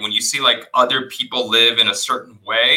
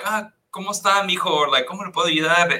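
lightly voiced warm greeting, pitched a little up; welcoming hotel staff; 5 semitones higher, faster than usual. Hotel staff greeting a guest, warm and welcoming. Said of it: "welcoming and warming".

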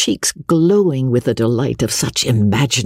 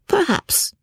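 smiling. A narrator's reading. Eleanor answering her sister's reproach, smiling. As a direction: say it lightly through a smile.

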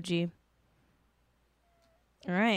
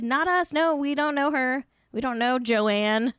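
higher, hurried-to-deny mock quote; mock disavowal; 4 semitones higher than usual. Actors distancing themselves from J K Rowling, mock disavowal. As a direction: play them disowning her, pitched up.

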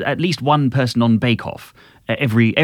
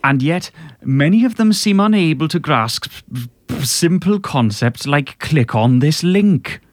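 a singer speaking. Retold or imitated. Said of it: "I'll do it as a singer speaking".

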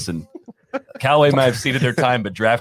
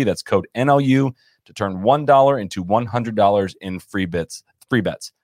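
ad read. Acted. Reads a sponsor ad.

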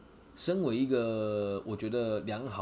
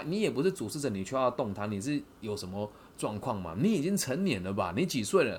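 ordinary talk, nothing marked

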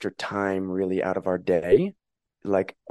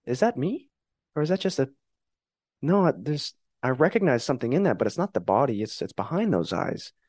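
higher, puzzled wonder at a mirror reflection; childlike wonder; 4 semitones higher than usual. Retold or imitated. A child staring into the mirror, higher-pitched puzzled wonder. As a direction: ask it like a kid staring at herself, baffled. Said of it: "that sensation of".

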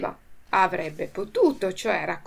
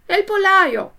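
high, loud and fast alarm; urgent alarm; 11 semitones higher, 10 dB louder, slower than usual. Acted. Pinocchio warning the farmer of thieves, urgent and high.

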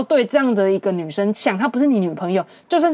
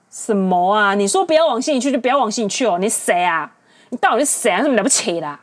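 indignant. Real, not acted. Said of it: "讲到这些我就很气".

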